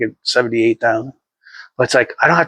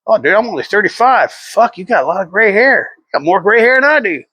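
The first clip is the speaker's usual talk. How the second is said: retold amazement; 6 semitones higher than usual. Retold banter about gray hair.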